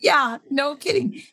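slow, laughing while agreeing; amused laughing reply. Real, not acted. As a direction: chuckle through it.

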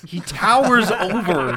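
booming wrestling-promo voice, slow and grand; hyped-up announcer. Pretend. Hosts praising Hulk Hogan, slow mock-epic promo. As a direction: hype him like a ring announcer.

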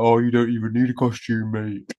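a lightly put-on Southern English accent, cheeky kid; cheeky kid teasing in a half-hearted Southern English accent; mock Southern accent. Imitating a kid teasing someone, in a mock Southern accent. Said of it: "the fact Selena said it or your accent".

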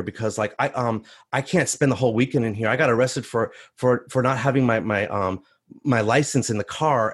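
low, hesitant, rambling questions; imitating an anxious man in a holding cell; nervous pleading. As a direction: stumble through it, speeding up as worry grows. Nervous bully retold, asking for help.

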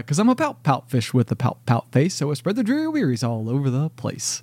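bright cheerful sing-song read; happy reading. Shown as a demonstration. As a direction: read it upbeat, like good news. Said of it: "like, so happy".

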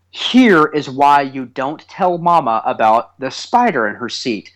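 slow, careful mock lecture; lecturing explanation. Dad explaining to his young son why pranks stay secret, lecturing. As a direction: spell it out like a college course. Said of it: "explaining to him, like, college course level".

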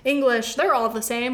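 breezy, mildly mocking self-quote; imitating your own offhand lumping-together; flippant. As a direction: toss it off flippantly. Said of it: "I flippantly am like".

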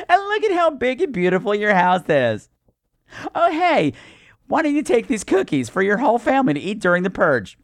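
hammed-up neighbour gushing; manic Stepford wife. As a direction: push cookies through a big fake smile. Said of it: "Stepford wife manic".

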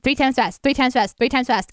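quick repeated "three times fast". Pretend. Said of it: "why did you actually say it three times fast".

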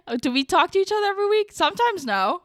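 high, fast, laughing disbelief; giggling at the idea of weekly talks; laughing mock question. Real, not acted. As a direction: tease it through giggles. Laughing mock of own quote.

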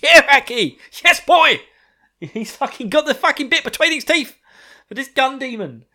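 high, loud, wild cheering; hyped-up Power voice. Retold or imitated. Power cheering Aki on about the gun devil, high loud frenzy. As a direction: roar it out like a crazed fan egging him on. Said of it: "And she's like".

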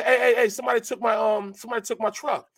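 high, fast alarmed call; retold alarm. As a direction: call out like someone just stole your truck. Calling out about stolen truck.

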